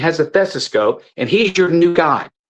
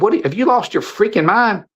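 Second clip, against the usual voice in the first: retold outburst; 6 semitones higher than usual. Retold confrontation with the doctor.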